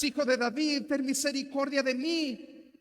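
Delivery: high, very loud pleading shout. Acted. Beggar crying out over those rebuking him, very loud plea. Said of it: "pero él clamaba mucho más".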